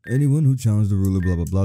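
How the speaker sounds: fast, lightly voiced old man. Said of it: "am I getting this old man".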